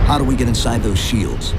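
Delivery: battle shout. Acted. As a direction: shout over the engines. Calling out during battle.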